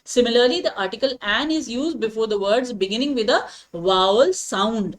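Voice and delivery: very slow, every word set apart; slow dictation. Shown as a demonstration. Teacher dictates the grammar rule to students, very slowly. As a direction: dictate it so students can write it down.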